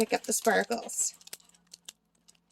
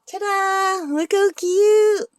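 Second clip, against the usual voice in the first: excited; 9 semitones higher, 6 dB louder, much slower than usual. Real, not acted. Showing off finished painting.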